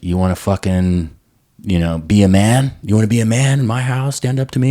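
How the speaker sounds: retold stepdad's challenge, pitch climbing as it goes; rising, taunting imitation of an angry man; mock raging bull. Stepdad challenging his stepson in the house, retold rage. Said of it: "He turned into a raging bull".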